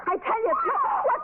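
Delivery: jumps up high in alarm; sudden fright; startled. Acted. Hears scream mid-sentence.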